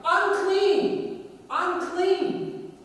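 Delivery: high, loud cry of "Unclean!"; yelled warning. Acted. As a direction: call out loudly to warn people away. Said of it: "you had to yell out".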